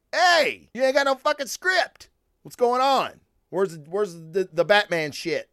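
high, brash heckling call-out; brash mock taunt. The host taunting the artist over a missing script, brash and mocking. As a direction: heckle him like a cocky fan poking fun. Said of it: "I didn't say it like that".

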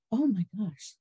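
startled by the news of the amputation; shocked gasp. Real, not acted. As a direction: catch your breath in shock. Hears shocking news, gasps.

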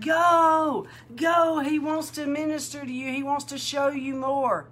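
imitating friends urging her on. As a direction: push her out the door with excitement.

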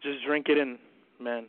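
cocky heel promo voice; wrestling promo. Acted. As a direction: brag like a wrestler on the mic. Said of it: "I will definitely cut a promo".

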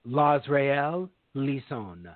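grand, stretched-out guest introduction; big announcer intro. Acted. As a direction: announce the name slowly and grandly. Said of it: "give him a big pronunciation".

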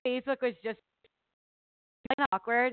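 audio cutting out; choppy signal with gaps; tape dropouts. Real, not acted. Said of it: "your sound keeps cutting out".

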